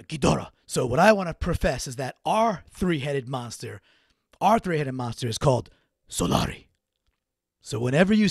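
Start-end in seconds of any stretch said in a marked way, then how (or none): 0.0-0.5 Ghidorah said with a light Japanese accent, Gi-do-rah; a playful mock Japanese accent on Ghidorah. Shown as a demonstration. Host naming a monster, saying Ghidorah with a Japanese accent. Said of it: "that, uh, Japanese accent". 6.1-6.7 deep announcer reveal of Solari; dramatic name reveal. Pretend. Host unveiling his three-headed monster, with a deep trailer-voice reveal.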